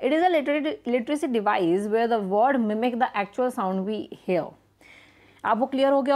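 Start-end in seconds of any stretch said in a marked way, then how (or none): 0.0-4.5 slow, careful reading of the definition. Shown as a demonstration. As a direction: read it out slowly for the class. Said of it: "reading the definition slowly". (धीमी गति से परिभाषा पढ़ना)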